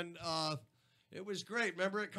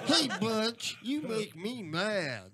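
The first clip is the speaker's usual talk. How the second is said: Droopy voice; slower than usual. Acted. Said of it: "cartoon dog that's had a stroke".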